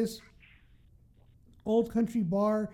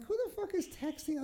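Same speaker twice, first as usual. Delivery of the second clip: quiet, higher slurred grumble; mock drunk mumble; 7 semitones higher, 9 dB quieter than usual. Friend imitating her drunk mumbling, quiet. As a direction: mumble it half asleep. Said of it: "I'm like".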